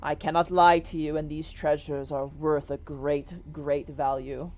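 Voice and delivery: stately genie vouching for the treasure; a touch of solemn salesmanship; lightly voiced grand genie. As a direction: proclaim it with measured, earnest emphasis.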